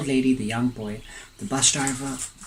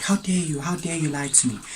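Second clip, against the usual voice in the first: mildly indignant outburst, pitched up at the start; retold anger; 4 semitones higher than usual. Young boy to old lady who lied about the police station, mock anger. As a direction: imitate an affronted boy without raising the volume. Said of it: "And he's angry".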